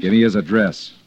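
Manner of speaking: insistent demand. Acted. Demanding the witness's address from Ernie, insistent. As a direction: press the demand over the objection. Repeats the demand after refusal.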